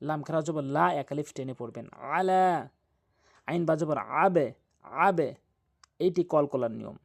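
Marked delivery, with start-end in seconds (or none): 1.9-2.7 আলা with a pressed throat ain; throaty ain. Shown as a demonstration. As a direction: push আ from mid-throat. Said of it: "হলকের মাঝখান থেকে চাপ দিয়ে আ".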